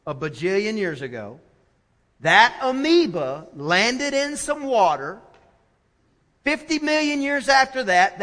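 lightly mocking slow, drawn-out explanation; imitating a self-assured intellectual. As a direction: spin out a dubious theory, slowly and pointedly. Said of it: "like to be real intellectual".

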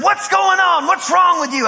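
high-pitched, acted-out panicky questions; alarmed bewilderment. Man tripping and falling asks the preacher praying for him, acted bewilderment. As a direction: imitate a man thrown off his feet.

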